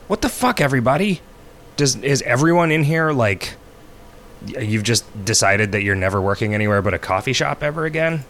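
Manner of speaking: high, exasperated disbelief; ranting in disbelief; incredulous. Retold or imitated. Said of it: "And I was like".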